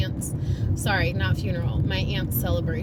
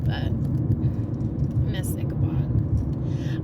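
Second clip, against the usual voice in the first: sad whisper; slower than usual. Real, not acted. Missing the dog.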